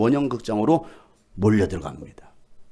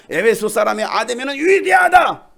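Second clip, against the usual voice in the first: loud, slow rallying cry; slow loud chant of praise; crowd shout; 6 semitones higher, 5 dB louder, slower than usual. Shown as a demonstration. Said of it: "우리가 한번 해보는 거예요".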